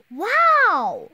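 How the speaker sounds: breathless whispered wow; awed whisper. Acted. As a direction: gasp it in a whisper. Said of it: "Connor and Amaya say".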